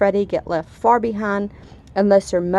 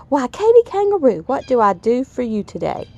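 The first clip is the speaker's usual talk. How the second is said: crocodile voice; 5 semitones higher, 4 dB louder than usual. Acted. Crocodile greets Katy, voiced.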